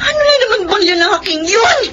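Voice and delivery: exasperated. Acted. Sister angry at brother's theft.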